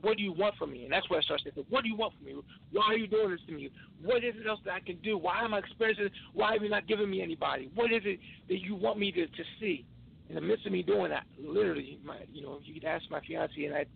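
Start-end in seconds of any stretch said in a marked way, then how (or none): 0.0-0.8 higher-pitched retold plea to God; begging. Believer retelling his prayer to God, begging. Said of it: "just why begging, like". 1.7-9.8 higher-pitched, exasperated retold plea; begging. Believer retelling his angry prayer to God, begging for answers. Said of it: "more angry, and just why begging".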